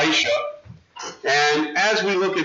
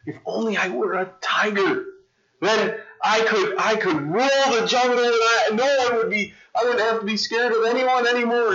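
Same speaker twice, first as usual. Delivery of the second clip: a touch higher, wishful dog; longing dog; 5 semitones higher than usual. Acted. Dog telling the wizard his wish, a touch higher and eager. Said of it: "he comes to the wizard and he says".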